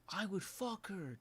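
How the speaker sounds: high, slow mock yell. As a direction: imitate him yelling it out. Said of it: "at the top of his lungs".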